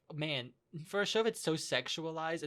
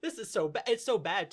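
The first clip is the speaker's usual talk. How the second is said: higher-pitched complaint; exasperated dismay; 5 semitones higher, 4 dB louder than usual. Retold or imitated. Fan reacting to another dubbed accent, exasperated dismay. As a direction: groan about it in mock agony.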